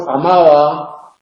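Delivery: amaba con la b suave, sin cierre completo de labios; b aproximante. Shown as a demonstration. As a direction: pronuncia la b de amaba como fricativa entre vocales. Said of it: "es ese sonido". (amaba con b intervocálica relajada)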